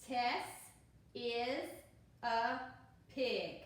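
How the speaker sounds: slow, word by word read-aloud for beginners. Shown as a demonstration. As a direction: point and read one word at a time. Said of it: "I'm gonna go to the next sentence".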